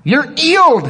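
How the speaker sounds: put-on high, forceful English-accented command; attempted English accent, high pitched. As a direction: imitate an English healer, dropping the H. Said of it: "English accent".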